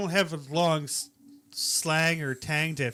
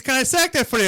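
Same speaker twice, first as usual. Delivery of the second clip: southern clerk voice; 7 semitones higher, 7 dB louder than usual. Retold or imitated. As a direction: do a chirpy Texas gas-station clerk. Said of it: "I said".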